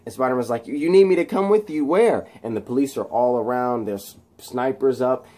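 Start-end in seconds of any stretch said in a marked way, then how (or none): 0.7-2.3 quick, higher questioning; imitated confused hero; acted bafflement. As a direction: stammer it in disbelief. Spider-Man surprised by request.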